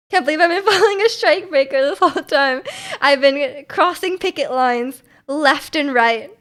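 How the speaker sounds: laughing. Real, not acted. Joking about being strike breaker.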